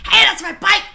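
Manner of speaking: high, loud call of protest; re-enacted shout. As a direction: call it out like you just spotted a thief. Re-enacts calling out at thief.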